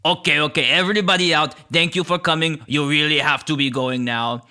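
hint of gruffness, briskly shooing everyone off; gruff creature. Gruff creature sends visitors away, lightly gruff and decisive. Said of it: "you hear a gruff voice".

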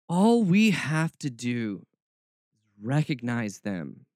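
slow, lightly mocking Southern read; a touch of Southern put-on; mocking Southern accent. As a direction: draw it out with a slight Southern mock. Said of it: "my Southern roots come out".

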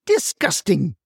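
high yelled Naked!; imitating grandma's high yell at the roof. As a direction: shout Naked! from way up, falling. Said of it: "she yelled".

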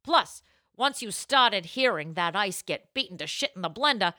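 lively, mildly theatrical scripted read; tasting notes read-out. Acted. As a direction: read the notes out with some showmanship.

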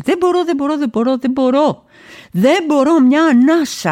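high, breathless pleading; gasping despair. Acted. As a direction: gasp out the words as if you can't breathe. (λαχανιασμένη απόγνωση)

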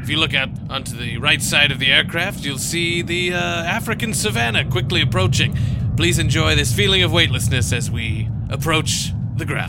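a light pilot voice over the intercom; a hint of a captain addressing passengers; airline captain announcement. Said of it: "this is your captain speaking".

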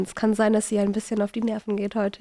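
nasal, stuffed-up voice; talking through a nasal cold. Real, not acted. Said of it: "für meine nasale Stimme".

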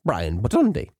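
lightly put-on character saying his own name; a hint of a silly voice; Brian Badondi. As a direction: imitate a comic character's pronunciation. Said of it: "or as he would say".

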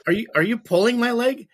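high, loud, laughing through the words; a giggly playful accusation; laughing question. Retold or imitated. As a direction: tease her back while laughing. Joking about her leg.

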